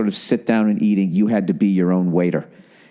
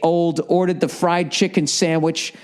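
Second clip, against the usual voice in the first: data log readout; 7 semitones higher than usual. Retold or imitated. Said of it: "They're gonna be like".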